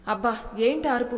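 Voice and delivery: startled gasp of a complaint; startled exclamation. Acted. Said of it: "దడుచుకొని చచ్చా".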